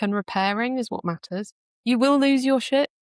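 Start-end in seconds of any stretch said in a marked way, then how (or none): 1.8-2.9 emphatic. Real, not acted. Emphatic point on losing temper.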